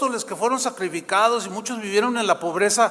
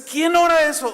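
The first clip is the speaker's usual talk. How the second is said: pitched up high in disbelief; voicing a listener's disbelief at the prayer, shocked; incredulous question; 9 semitones higher, 4 dB louder than usual. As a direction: ask as if you can't believe anyone prays that. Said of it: "Usted dice".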